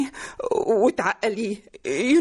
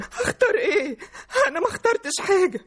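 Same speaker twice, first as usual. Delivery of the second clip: tearful protest; 5 semitones higher than usual. Acted. Crying mother protests daughter's jibe.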